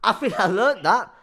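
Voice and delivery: loud, indignant retort; defensive. Real, not acted. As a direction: snap back at mom loudly. Arguing with mom.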